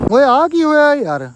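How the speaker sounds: taken aback by the view; startled at the fog, drawn out; surprised. Real, not acted. Sees odd fog on hills.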